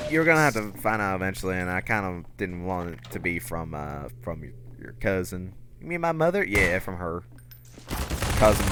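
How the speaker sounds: a hint of hillbilly father explaining; mild Southern dad voice; southern accent. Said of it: "kinda stuck in this southern accent".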